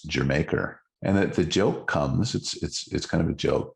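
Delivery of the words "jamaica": English accent. Shown as a demonstration. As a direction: say Jamaica like an Englishman, stretched out. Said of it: "if you say it in an English accent".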